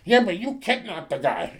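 high, whiny mock of a fickle fan; mocking complainer. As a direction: sneer it like a nagging hater. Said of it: "come back at me ... and go".

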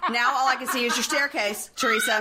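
quoting the host through laughter; host laughing at a guest's camera mess; laughing quote. Retold or imitated. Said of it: "He goes".

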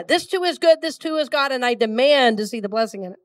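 insistent push on "demand"; attitude on DEMAND. Shown as a demonstration. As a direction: run the affirmation through, leaning on "demand". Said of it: "get a little attitude on that demand part".

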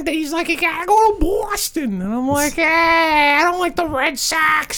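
lightly voiced Brooklyn mobster; easygoing Brooklyn wise guy talk; Brooklyn accent. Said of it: "my Brooklyn accent".

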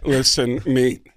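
a light Walken voice, pleading; Christopher Walken impression. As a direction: beg in a lightly done Walken voice. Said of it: "do Christopher Walken asking for his target bit".

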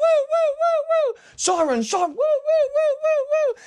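high wailing mouth siren; siren imitation. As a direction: wail like a police siren.

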